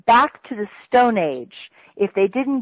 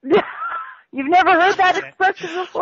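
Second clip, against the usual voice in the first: laughing; 9 semitones higher than usual. Real, not acted. Laughing at listener's shock.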